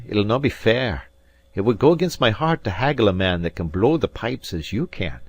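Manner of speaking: lightly voiced Scot, won over; moved Alan. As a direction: concede with honest admiration. Narrator voicing Alan.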